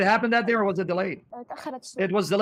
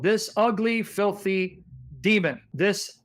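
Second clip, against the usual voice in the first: contemptuous insults; much slower than usual. Real, not acted. Host insults the husband on screen.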